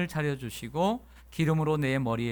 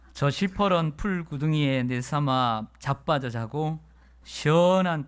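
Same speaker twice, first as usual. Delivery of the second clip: Gyeongsang dialect; 3 semitones higher than usual. Retold or imitated. Pastor reading the Gyeongsang dialect psalm to the congregation, in a broad Gyeongsang accent. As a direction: read the psalm like a rough Gyeongsang farmer. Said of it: "예, 경상도 버전이 있더라고요".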